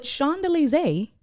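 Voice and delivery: "Champs-Élysées" with French shon-zay-lee-zay; French pronunciation. Shown as a demonstration. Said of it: "is not Champs Day Elysees".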